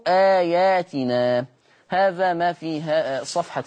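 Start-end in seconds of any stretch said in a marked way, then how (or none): 0.1-1.4 slow, louder آياتنا joined from عليكم; slow teaching recitation of عليكم آياتنا; slow demo of آياتنا. Shown as a demonstration. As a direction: draw out the link into آياتنا. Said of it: "بصلة ميم الجمع".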